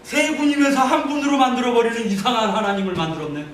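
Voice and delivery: high, indignant outburst; angry outburst. Retold or imitated. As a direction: raise your pitch in exasperated protest. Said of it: "이제는 화가 나는 겁니다".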